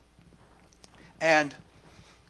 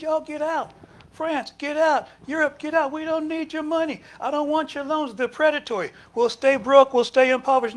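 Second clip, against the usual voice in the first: higher, louder defiant leader's voice; Traore telling them off; 7 semitones higher, 3 dB louder than usual. Retold or imitated. Traore orders France and Europe out, defiantly. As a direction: order the lenders out with fire. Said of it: "He said".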